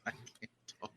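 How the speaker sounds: numb tongue, words slurred and weak; numb mouth. Real, not acted. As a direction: talk through a numb burning mouth. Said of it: "I can't feel my tongue".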